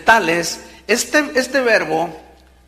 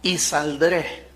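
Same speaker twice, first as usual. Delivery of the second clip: "y saldré" said slowly, drawn out; slow down and weigh "y saldré"; emphasis on "y saldré"; 3 semitones lower, 3 dB quieter, slower than usual. Shown as a demonstration. Preacher stresses Job's "y saldré" slowly to the congregation. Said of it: "quiero enfatizar la palabra".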